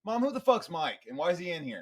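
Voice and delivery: put-on a teen yelling at mom; indignant teen. Acted kid confronting mom.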